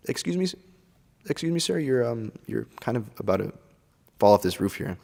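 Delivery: soft, timid, overly polite; a meek little excuse me, far too soft; calm polite warning. Shown as a demonstration. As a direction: tap them gently with the words. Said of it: "So you just calmly say".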